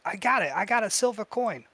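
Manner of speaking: put-on high-pitched gleeful kid voice; excited goblin child. Goblin child running off with a silver coin, gleeful. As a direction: crow over a prize like a child.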